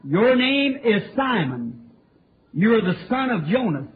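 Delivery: Jesus' words spoken slowly and weightily; preacher voicing Jesus with slow solemnity; slow, deliberate quote. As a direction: let "Your name is Simon" land word by word. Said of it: "Jesus looked at him and said".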